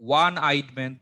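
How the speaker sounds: ওয়ান sounded firmly with an opening "wa"; pronunciation demo. Shown as a demonstration. Teacher proves the sound to students, firm "wa" in ওয়ান. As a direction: stress the "wa" that starts ওয়ান. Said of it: "দেখো ওয়া উচ্চারণটা হইছে".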